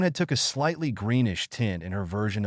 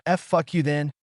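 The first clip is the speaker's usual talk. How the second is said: stammered, pitched-up yell; 5 semitones higher than usual. A narrator's reading. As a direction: shout it back, stuttering. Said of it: "she yelled".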